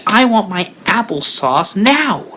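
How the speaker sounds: put-on high, whiny toddler demand; a hungry baby insisting on her snack. Crying baby demands applesauce.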